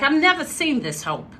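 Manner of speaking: put-on Boston-like accent. Woman mimicking a guest's dad, Boston-like accent. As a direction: redo the quote in a New England accent. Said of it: "Actually, he said, like".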